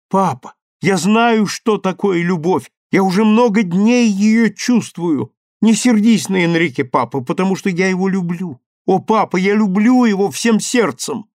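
high, loud, heartfelt pleading; pleading daughter. A narrator's reading. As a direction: beg father not to be angry.

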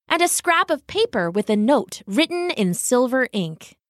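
usual speaking voice

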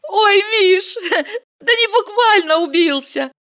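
a little laugh through the words; amused, laughing it off; chuckling. A narrator's reading. Valeria laughs off Mikhail's fright, chuckling. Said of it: "Валерия усмехнулась".

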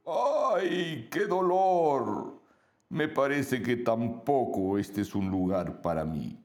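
high, slow little monster in pain. Acted. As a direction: whine about the tummy ache, drawn out. Monstruo con dolor de barriga. (voz de monstruito adolorido)

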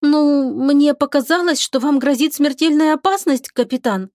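put-on sheepish young girl explaining herself; young sailor girl.

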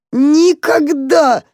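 mole's grief building to a wail. A narrator's reading. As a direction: let the sob swell on the repeat. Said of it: "всхлипывал крот".

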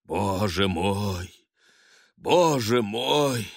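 slow, high, hammed-up wailing; father theatrically lamenting another mouth to feed; affected lament. A narrator's reading. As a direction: overplay the grief, drawn out. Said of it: "аффектированно зарыдал".

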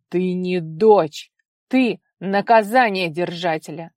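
loud, slow angry growl; growling father. A narrator's reading. Father growling at his daughter, slow and loud. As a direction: growl it down at her. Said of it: "зарычал отец".

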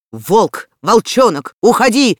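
loud, rising furious yell; priest shouting. A narrator's reading. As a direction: drive the boy away with your voice. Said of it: "закричал жрец".

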